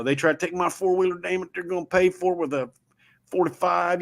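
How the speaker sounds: a hint of a tough guy guarding his stuff; lightly mock the gun-toting bravado; macho American attitude. Imitating the macho American who would shoot a thief, lightly voiced. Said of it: "that macho American attitude of".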